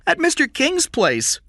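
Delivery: put-on a young boy insisting on his name, nervous; scared boy Jeff. Boy answers the kidnapper.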